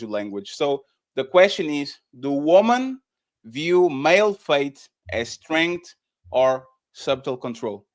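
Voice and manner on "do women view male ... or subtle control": slow and deliberate, words spaced out; slower, careful delivery. Shown as a demonstration. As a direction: ask it slowly so everyone follows. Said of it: "With talking slower".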